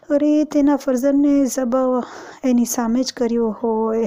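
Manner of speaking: lamenting recital of the martyrs' sufferings to mourners; chant-like sermon narration, voice held in grief; solemn majlis lament; mourning sermon recital. Acted.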